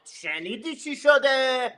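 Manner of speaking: high eager "guess what happened"; bursting to share the gossip; gossipy excitement. Retold or imitated. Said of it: "I literally call, like".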